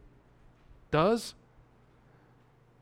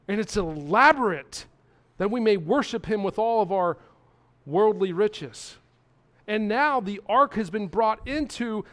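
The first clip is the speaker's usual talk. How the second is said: building excitement; 3 semitones higher, 3 dB louder than usual. Real, not acted. Preacher building to high point.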